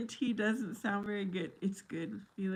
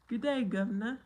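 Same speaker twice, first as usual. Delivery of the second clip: mock British accent; 2 semitones higher than usual. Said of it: "responds in a British accent".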